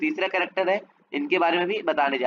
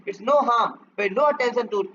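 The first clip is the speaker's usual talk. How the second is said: raised, higher yell of the uncle; mock roar; 4 semitones higher, slower than usual. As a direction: bark it like the impatient uncle. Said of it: "वो बस चिल्ला के बोलते थे".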